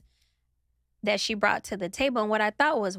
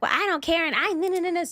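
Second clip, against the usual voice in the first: a higher, mildly sassy brush-off; mock sassy dismissal; 6 semitones higher than usual. Mocking the guy's sassy comeback, a touch higher. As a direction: mimic him trying to act tough. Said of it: "he trying so hard to be a baddie".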